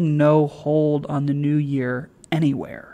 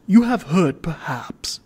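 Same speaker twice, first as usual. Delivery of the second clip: oracular. Acted. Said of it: "said Sir Joseph oracularly".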